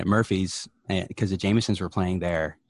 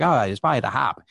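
mock Boston accent; 4 semitones higher, 4 dB louder than usual. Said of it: "he was like".

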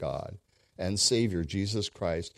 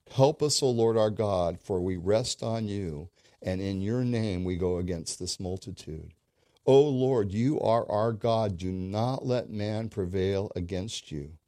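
a loud, pleading cry to the Lord; preacher crying out a king's prayer; fervent prayer; 3 dB louder than usual. Retold or imitated. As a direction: call out to God as a desperate king. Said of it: "That was his prayer".

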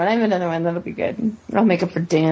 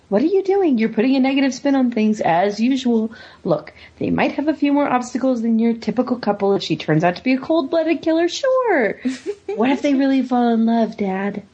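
animated argument, pitch jumping up on "sure"; rehearsed quote inflection; 3 semitones higher than usual. Acted. Character arguing with Dad about a couple, acted with practiced inflection. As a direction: copy the character's inflection, pleading a case. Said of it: "get the inflection down on that one".

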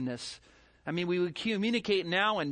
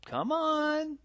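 incredulous scoff; 10 semitones higher than usual. Real, not acted. Preacher scoffing at excuse.

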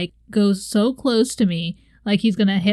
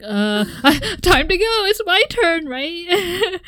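much higher, timid and unsure; nervous squeak; 9 semitones higher, slower than usual. Retold or imitated. Retelling meeting the angry driver's eyes, nervous and high. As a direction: squeak out the excuse meekly. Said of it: "And I'm like".

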